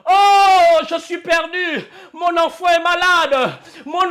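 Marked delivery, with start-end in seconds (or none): 0.1-1.8 despairing cry. Retold or imitated. A believer facing trouble crying to God, despairing cry. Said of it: "On crie".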